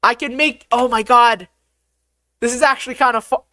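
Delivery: high, excited exclaiming; amazed excitement. Real, not acted. Still amazed at pushable cheese.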